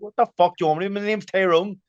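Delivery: retold exasperation. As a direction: act out an exasperated comeback. Retold argument over his name.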